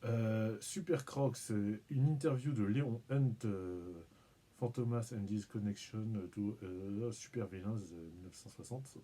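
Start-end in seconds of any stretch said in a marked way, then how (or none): 4.6-7.8 French accent in English. Real, not acted. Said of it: "pardon pour mon accent".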